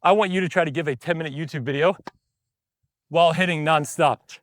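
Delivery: breathless while talking; out of breath. Real, not acted. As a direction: talk between heavy breaths. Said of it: "I am out of breath".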